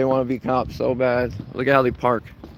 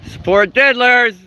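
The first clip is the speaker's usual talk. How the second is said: slow, loud and higher; slow accusing shout; 8 semitones higher, 5 dB louder than usual. Real, not acted. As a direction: drag the words out as an accusation.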